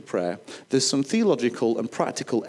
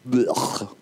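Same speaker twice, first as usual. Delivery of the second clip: dry heaving. Shown as a demonstration. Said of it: "Anybody do a good sick noise".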